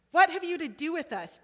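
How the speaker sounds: high loud cry of the spirit. A narrator's reading. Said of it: "he cried out".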